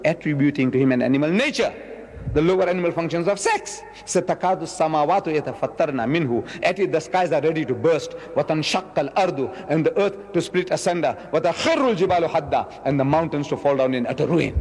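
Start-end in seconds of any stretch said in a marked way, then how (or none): 4.0-6.6 fast Arabic recitation of the verse; Quran recitation. Acted. 8.3-9.6 fast Arabic recitation of the verse; Quran recitation. Acted. 11.3-12.8 fast Arabic recitation of the verse; Quran recitation. Acted.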